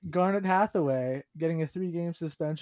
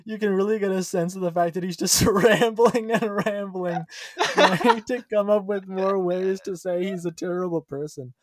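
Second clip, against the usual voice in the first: talking through real laughter, higher and louder; laughing; 5 semitones higher, 5 dB louder than usual. Real, not acted. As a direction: crack up while trying to get it out. Amused reaction to the quote.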